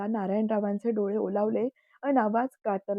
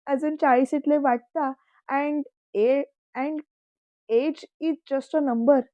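slow, teasing, higher; laughing; 4 semitones higher, 4 dB louder, much slower than usual. A narrator's reading. Nephew teasing his uncle about his age, slow and laughing. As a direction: tease him playfully, slowly. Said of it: "स्वयं हसत बोलला".

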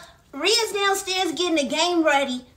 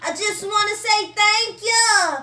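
prayer voice; 4 dB louder, slower than usual. Acted. Kid says grace.

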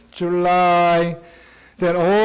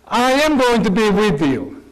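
a raised, fervent voice for God's promise; voicing God; 6 semitones higher than usual. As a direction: speak God's reassurance with conviction. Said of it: "But he said, God said to Moses".

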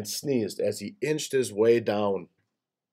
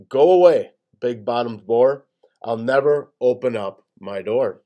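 defiant call; 4 dB louder than usual. Acted. Gator calls back at boar.

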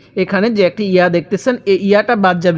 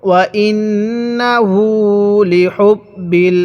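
slow recitation with held nasals and long vowels; Quran recitation demo; much slower than usual. Shown as a demonstration. Teacher leading students to read along, slow Quran recitation. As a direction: stretch the closing syllable right out. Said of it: "তাহলে আমার সাথে মিলিয়ে পড়ুন".

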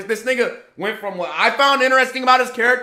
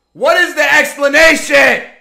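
demanding shout; 3 semitones higher, 4 dB louder than usual. Real, not acted. Outraged anime rant.

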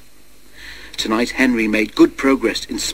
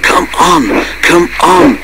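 higher, fussing urging; a higher, bustling little engine voice; fussy, self-important; 4 semitones higher, 7 dB louder, much slower than usual. A narrator's reading. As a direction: urge the others on importantly. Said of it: "fussed Percy importantly".

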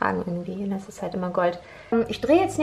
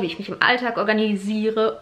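organisiere with the s lisped through braces; lisping the s of organisiere, braces in. Real, not acted. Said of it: "hört ihr eigentlich das Lispeln?".

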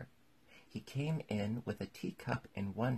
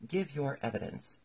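higher-pitched royal command; lightly voiced king ordering a witness; king's order; 6 semitones higher, 3 dB louder than usual. A narrator's reading.

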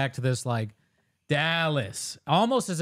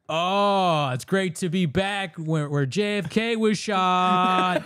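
mock comedian in Scotland; 5 semitones higher, much slower than usual. Mocking the comic misplacing Dallas in Scotland, drawn out. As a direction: ham up the clueless comic's toast. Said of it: "if he was in Scotland".

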